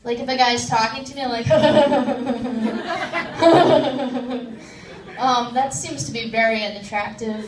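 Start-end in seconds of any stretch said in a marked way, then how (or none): 1.6-5.1 long odd off-putting cackle; weird laugh. Shown as a demonstration. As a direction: laugh weirdly to repel a guy. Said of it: "do a really weird laugh".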